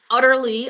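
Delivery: UTTERLY leaned on as a pun; UTTERLY said pointedly, like udderly; punning stress. Shown as a demonstration. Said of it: "See what we did there?".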